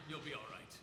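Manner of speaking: calm him down, leaning on "You'll"; man reassuring. Retold or imitated. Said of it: "the man's going like".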